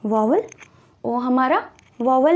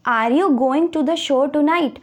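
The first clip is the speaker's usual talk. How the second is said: slow example read; much slower than usual. Shown as a demonstration. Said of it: "teacher reads example sentence".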